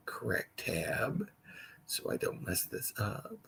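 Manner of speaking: unvoiced whisper, slow and private; whispering to himself. Real, not acted. Host hunting for the right tab, whispering to himself. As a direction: breathe the words to yourself, not the audience.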